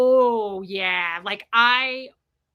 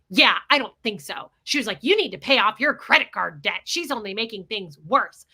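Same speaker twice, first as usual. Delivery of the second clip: dismissive; 5 dB louder than usual. Retold or imitated. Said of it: "she goes".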